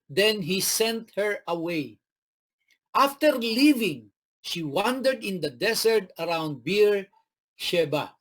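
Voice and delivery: slow, measured Bible reading; unhurried scripture read. Acted. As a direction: read the verse slowly to the congregation. Preacher reads scripture aloud.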